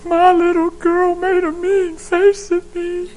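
high, slow, fretful mother voice; worried mother. Retold or imitated. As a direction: play the anxious mom pleading with the pastor. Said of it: "they come to their pastors".

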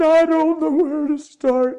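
voicing the sobbing son; son overwhelmed. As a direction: struggle to begin.

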